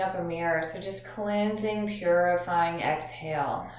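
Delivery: measured instructions with long pauses; guided meditation. Acted. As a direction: guide listeners gently through breathing, drawing out phrase endings.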